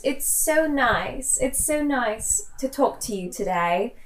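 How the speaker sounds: soft, prim British schoolgirl voice; Hermione Granger. Pretend. Playing Hermione for the guest, in a soft prim British voice. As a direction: play a prim English schoolgirl. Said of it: "'cause I'm Hermione".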